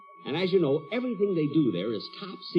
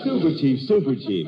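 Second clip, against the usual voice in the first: mock laughing; 5 dB louder than usual. Jack laughing at the joke.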